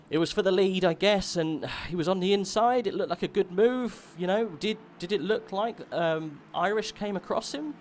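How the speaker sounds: keyed-up motorsport commentator; live play-by-play. Real, not acted. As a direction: puzzle out the overtake on air, animated. Live commentary on lead change.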